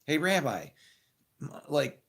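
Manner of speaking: imagined call to the rabbi, hammed-up exasperated complaint; excited, exasperated. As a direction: pretend phone call, venting to the rabbi in a high pitch. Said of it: "call a rabbi on a phone at that time and go".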